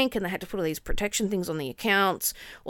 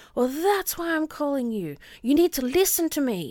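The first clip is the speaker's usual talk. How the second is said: mock high, angry, pushy screaming; 7 semitones higher than usual. Retelling a phone call from a scammer: imitating a scammer screaming. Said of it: "he just starts screaming at me".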